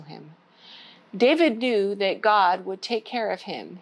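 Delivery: put-on gentle storybook read-aloud for kids; story time reading. Children's librarian reading a Bible story, gentle.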